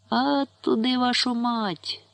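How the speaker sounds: sudden high rough shout from above; sudden yell. A narrator's reading. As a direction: bark it out of nowhere. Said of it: "знагла зіпонуло".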